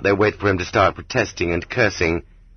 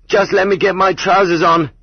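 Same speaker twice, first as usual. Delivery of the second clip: much higher, louder desperate yell; yelled plea; 11 semitones higher, 4 dB louder than usual. A narrator's reading. Dragged half-naked boy pleading with warders, yelling high. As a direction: cry it out while being dragged. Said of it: "he yelled".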